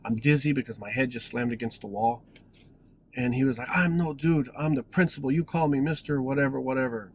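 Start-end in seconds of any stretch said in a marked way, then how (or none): 3.7-7.1 mild mock telling-off, pitched a little up; a touch of an indignant principal's rant; retold yelling. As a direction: imitate an angry principal without fully yelling. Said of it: "he just went yelling at me".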